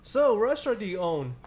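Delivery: a touch of nosy cashier; cashier questioning customer. Acted. Imitating a cashier quizzing a buyer, lightly acted. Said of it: "you give answers like".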